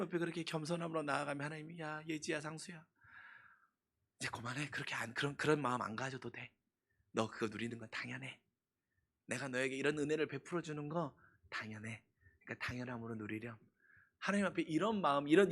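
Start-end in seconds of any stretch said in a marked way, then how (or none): 1.8-13.6 soft, quiet tender reassurance; calm her down gently; gentle comfort. Pretend. God voiced comforting. (다정하게 안심시키는 목소리)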